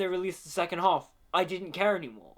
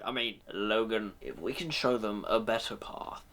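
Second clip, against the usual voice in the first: lower, dignified Patrick Stewart Professor X; Patrick Stewart impression; 5 semitones lower, 4 dB quieter than usual. Reviewer shows how Professor X should sound, lower dignified Patrick Stewart voice. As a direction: speak with grave, measured gravitas. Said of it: "compare him to ... Sir Patrick Stewart".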